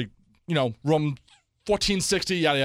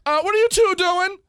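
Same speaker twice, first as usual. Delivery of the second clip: much higher, louder scolding nurse voice; mock nurse telling them off; imitated stern nurse; 5 dB louder than usual.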